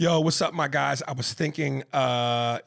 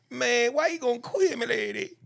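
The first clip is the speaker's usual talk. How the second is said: rapper impression; 10 semitones higher than usual. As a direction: mimic a rapper's ad-lib delivery. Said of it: "tell me what I just said".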